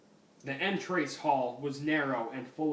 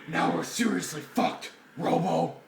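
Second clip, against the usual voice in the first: hammed-up Batman; 4 dB louder than usual. Shown as a demonstration. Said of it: "this is the line, word for word".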